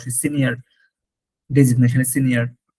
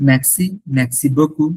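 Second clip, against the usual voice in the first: slow repetition; much slower than usual. Shown as a demonstration. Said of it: "repeat for learners".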